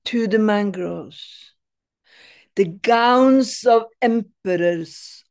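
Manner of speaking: measured recital with long pauses between lines; poetry reading. Acted. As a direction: give each line room, falling gently at the end. Reads own poem aloud.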